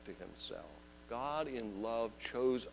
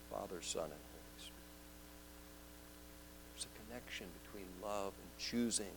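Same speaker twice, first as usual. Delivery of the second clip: hushed; 4 semitones lower, 15 dB quieter, faster than usual. Acted. Reverent trailing off.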